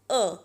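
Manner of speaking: अ as short "o" as in got; short O sound. Shown as a demonstration. Teacher giving the sound of O, अ as short "o". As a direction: say अ as the O of mop. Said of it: "जिसका short sound है".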